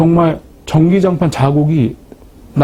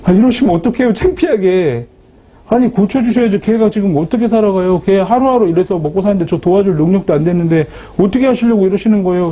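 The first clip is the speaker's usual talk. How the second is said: higher, whining complaint to God; resentful complaint; 3 semitones higher than usual. Retold or imitated. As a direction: sulk at God as if he let you down. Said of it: "하나님한테 제가 원망한 게". (하나님께 투정하듯 높은 목소리로 원망)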